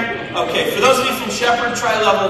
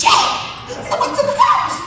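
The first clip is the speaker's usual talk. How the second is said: whispered alarm; 3 dB louder than usual. Retold or imitated. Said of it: "she whispers these words".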